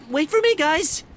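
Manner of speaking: high, loud call after the boat; loud, high call to the departing crew. Acted. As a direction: shout to the crew to wait. Riley calling after the rowboat.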